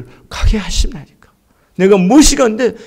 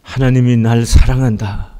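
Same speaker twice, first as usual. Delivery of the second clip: closing prayer; 6 semitones lower than usual. Acted. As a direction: lead the church gently into prayer. (낮고 조용한 기도 목소리)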